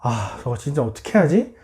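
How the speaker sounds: acted weary irritation with sighed "아"; annoyed. Brothers spotting Joseph coming, annoyed grumbling. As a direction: grumble it, mostly low and subdued. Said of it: "또 짜증이 나는 거예요".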